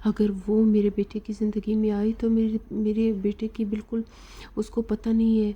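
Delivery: mother shouting in alarm about her son, mildly imitated; retold shouting. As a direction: raise the voice in a retold rant. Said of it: "زور زور سے چلانے لگتی ہے".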